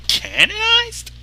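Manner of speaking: slow, high, fearful question; dread. Acted. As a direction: ask it full of dread. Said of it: "with a certain amount of dread".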